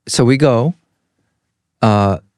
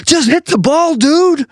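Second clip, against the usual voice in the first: impatient outburst. Retold or imitated. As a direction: push the slow guy to hurry up. Impatient at slow golfer.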